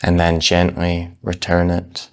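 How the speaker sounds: calm, unhurried meditation guidance with long pauses; measured, soothing meditation-teacher delivery; guided meditation. Real, not acted. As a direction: ease them gently into the practice, leaving space between phrases. Leads a breath meditation.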